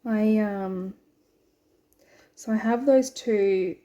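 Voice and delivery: talking around a needle held in the lips; needle in mouth. Real, not acted. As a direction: speak with a needle between your lips. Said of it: "sorry, I put a needle in my mouth".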